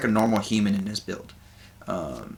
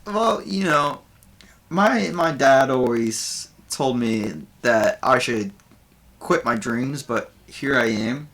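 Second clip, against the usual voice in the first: raised, louder comic bard voice; bard doing stand-up; 4 semitones higher, 3 dB louder than usual. Acted. Game master voices the bard Buvor greeting the audience, higher and louder. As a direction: Buvor working the crowd as a nervous comedian. Bard telling stage jokes.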